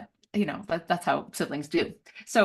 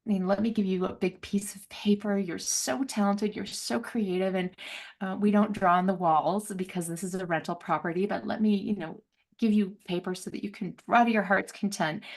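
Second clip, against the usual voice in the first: gentle reassurance. Retold or imitated. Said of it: "nobody said".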